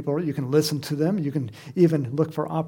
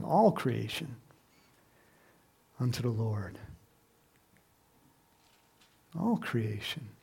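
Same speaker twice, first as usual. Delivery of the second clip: lower, softening reverent musing; hushed wonder; 3 semitones lower than usual. Real, not acted. Muses reverently on creation praising God.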